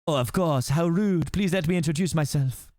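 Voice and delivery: put-on gallant French-accented suitor; generic French accent. French rescuer apologising to the princess, French accent. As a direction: introduce yourself grandly in a French accent. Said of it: "that's my very generic French accent".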